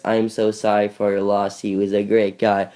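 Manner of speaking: slow, rote sympathy line; generic condolences. Acted. Funeral guest offering sorry for your loss, generically. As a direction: recite stock condolences slowly. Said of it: "there's gonna be, like, the generics".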